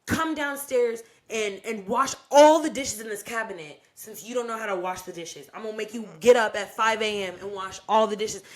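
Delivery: bossy mother ordering her to the dishes; strict mom waking her daughter at dawn to wash dishes; imitating a scolding mom.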